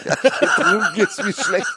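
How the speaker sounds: clickbait video narrator. Pretend. Clickbait YouTuber voice.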